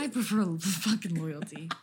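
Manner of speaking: playful parody of her friend's answer; mocking her line. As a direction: parrot her words with a grin. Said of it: "Now, to me".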